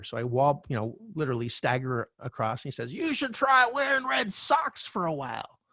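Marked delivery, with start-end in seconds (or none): 2.9-5.6 eerie voice. Retold or imitated. Homeless man's odd advice retold.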